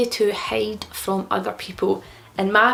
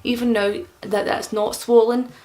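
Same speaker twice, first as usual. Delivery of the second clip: talking around a tongue bar; slightly thick speech from a new piercing. Real, not acted. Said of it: "You guys can probably tell that I'm not talking the same".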